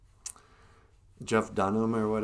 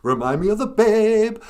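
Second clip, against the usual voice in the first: puppet voice; 14 dB louder, slower than usual. Acted. Puppet banter, Labyrinth bit.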